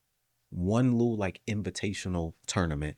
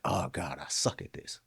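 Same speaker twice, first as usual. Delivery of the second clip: lower, muted mock dismay; sarcastic self-criticism; 4 semitones lower, 5 dB quieter than usual. Speaker teasing themself after messing something up, mildly sarcastic. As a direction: mutedly poke fun at yourself, mildly sarcastic. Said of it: "me being sarcastic".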